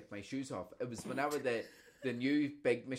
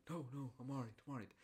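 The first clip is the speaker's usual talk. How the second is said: imitating granda; 12 dB quieter, faster than usual. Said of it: "granda insisting".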